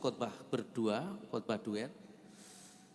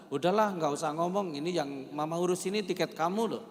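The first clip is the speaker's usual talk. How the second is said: imitated irritated retort; 3 semitones higher, 5 dB louder than usual. Retells wife's irritated retort in quarrel.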